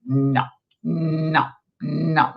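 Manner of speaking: imitated smart-aleck refusal. Client testing the reader, mock smart-aleck no. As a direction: play a client stonewalling, each no standing alone. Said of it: "like a real smart aleck".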